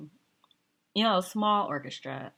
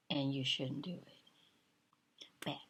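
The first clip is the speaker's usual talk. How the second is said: slow, hushed advice; slow whispered don't; whispered warning; 8 dB quieter, much slower than usual. Real, not acted. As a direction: whisper it slowly like a secret.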